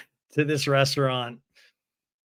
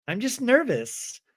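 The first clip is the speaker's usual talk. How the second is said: nervous; 8 semitones higher than usual. Retold or imitated. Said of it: "I'm nervous".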